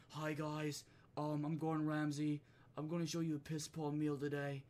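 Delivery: restrained, level mock British presenter; Gordon Ramsay ASMR. Chef introducing his meal, mock ASMR. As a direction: keep it measured, like an understated chef parody. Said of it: "A S M R shit".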